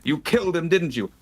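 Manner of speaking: loud laughing accusation. Real, not acted. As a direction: accuse while laughing hard.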